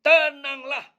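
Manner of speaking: high, loud then slowing reassurance; calming Jesus. Acted. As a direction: lift them out of fear with calm authority. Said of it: "Yesus berkata kepada mereka".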